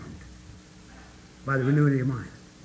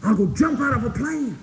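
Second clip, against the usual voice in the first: higher, louder bragging bravado; mock bravado; 8 semitones higher, 4 dB louder than usual. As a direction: play the scared guy boasting big. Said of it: "somebody that's afraid of heights goes".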